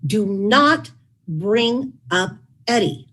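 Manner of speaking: slow, mild mock plea; retold pleading, drawn out slowly; imploring. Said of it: "I implored him".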